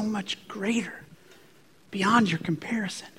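a hushed, near-whispered voice of God; barely above a whisper, tender and patient; softly reassuring whisper; small still voice. Retold or imitated. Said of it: "This small voice".

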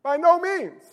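"no" pitched high in BY NO MEANS; strongest emphatic. Shown as a demonstration. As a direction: lift "no" firmly, then fall on "means". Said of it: "That's the strongest emphatic in the Greek".

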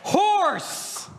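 high-pitched, explosive single-word call; exclaimed announcement. Acted. Pastor announcing the next silly cologne name, high-pitched shout.

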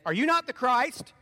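loud, high, slow demanding jeer; angry taunt. Acted. Criminal on the cross hurling abuse at Jesus, loud and angry. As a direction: hurl it at him, drawn out. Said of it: "hurling abuse at him".

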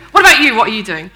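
hurried deflection. Acted. Churchgoer turning the question on a colleague, rushed and loud. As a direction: blurt it out, then bat the question back.

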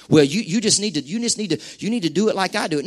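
quiet, fast mock lecturing; mock preachy scold. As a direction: lightly mimic a preachy church know-it-all.

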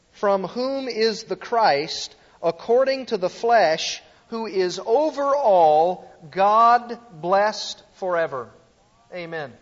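solemn scripture reading. Acted. Preacher reads Romans nine five to the congregation, solemnly. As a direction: proclaim the verse slowly.

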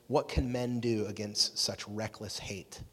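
slow, low and soft, mildly despairing; defeated Theoden. Acted. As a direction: quote it slowly, with a touch of defeat. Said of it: "He feels defeated, right?".

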